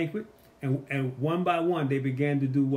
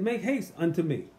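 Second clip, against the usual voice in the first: pleading call; 4 semitones higher than usual. Retold or imitated. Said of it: "He said".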